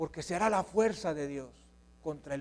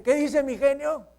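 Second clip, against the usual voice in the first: teasing father; 6 semitones higher, 4 dB louder than usual. Acted. Father teasing failing child.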